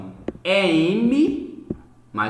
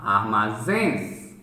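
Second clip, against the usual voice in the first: "Armazéns" slow and lower, last syllable strongest; stress on zéns; 7 semitones lower, much slower than usual. Shown as a demonstration. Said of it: "a oxítona é a mais forte".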